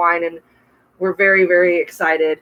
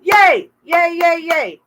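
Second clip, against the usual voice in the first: excited cheering; 8 semitones higher, slower than usual. Real, not acted. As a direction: cheer them on gleefully. Cheering viewers planting gardens.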